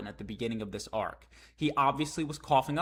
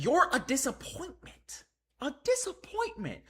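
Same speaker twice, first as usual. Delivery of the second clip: put-on scornful old warrior; 11 semitones higher than usual. Reading Gaban's line to Luffy.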